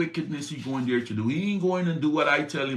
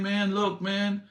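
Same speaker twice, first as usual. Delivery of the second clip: higher, pleading buddy voice; a hurt friend asking why; talking donkey; 7 semitones higher than usual. Acted. The donkey reproaching Balaam, higher and pleading. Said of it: "To the donkey saying".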